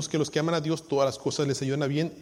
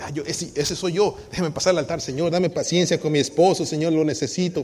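eager mock volunteer; 2 semitones higher, 6 dB louder than usual. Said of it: "Y usted dice".

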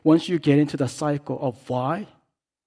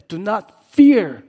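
higher, louder, slow rallying cry; rally the people, fearless; bold shout; 8 semitones higher, 12 dB louder, slower than usual. Acted. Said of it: "That's what they said".

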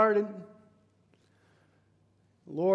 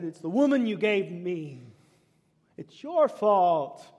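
blaming; 5 dB louder than usual. Acted. Voicing Adam blaming God.

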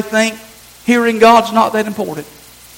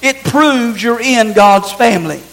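slow stated point; slower than usual. Shown as a demonstration. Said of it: "Number one".

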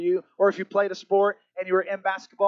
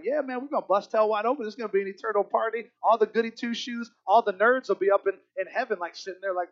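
put-on brash, higher party-boy voice; cocky young partier; 3 semitones higher than usual. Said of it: "I used to be like".

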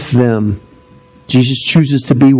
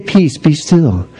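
gentle calm; 3 semitones higher, slower than usual. Retold or imitated. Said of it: "he doesn't just say".

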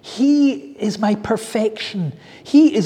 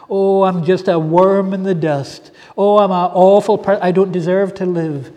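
mock moaning; 5 dB louder than usual. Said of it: "just moaning about how bad I am".

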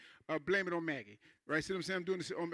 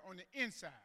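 quiet emphasis; 11 dB quieter than usual. Real, not acted. Preacher drops his voice.

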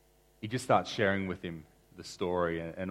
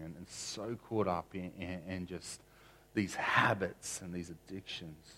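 prayer. Real, not acted. Pastor prays after story.

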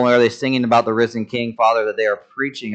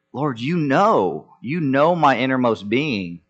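acted heartfelt insistence, stretched out; earnest plea; 2 semitones higher than usual. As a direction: lean long on each "know", pleading. Peter's third answer, acted out.

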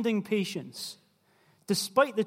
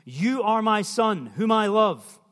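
booming, slow and much louder; voice of God; 3 semitones higher, 6 dB louder, slower than usual. Acted. God speaking from heaven over Jesus, booming. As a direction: proclaim it like a voice from heaven.

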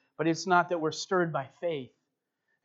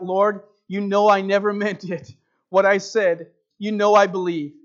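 louder, hurried protest to the Lord; retold pleading cry; 3 semitones higher, 8 dB louder than usual. Old man pleading with the Lord after being called a sinner, loud cry. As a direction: plead your innocence out loud. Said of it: "And he cried out".

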